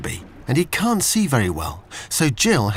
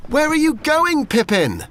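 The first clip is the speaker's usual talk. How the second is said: much higher, calling after her; shouting; 13 semitones higher than usual. Acted. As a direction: shout after the running dog. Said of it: "shouted Olivia".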